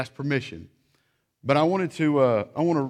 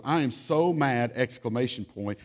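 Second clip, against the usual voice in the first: mock mad child. Child's journal.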